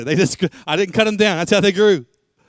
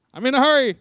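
high hammed-up impatience; mock hurry; 8 semitones higher, 3 dB louder than usual. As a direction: whine that you're in a hurry. Mocks impatient hurried prayer.

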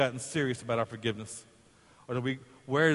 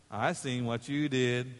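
sly sister taunting; 3 dB quieter, slower than usual. Retold or imitated. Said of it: "his sister was going like this".

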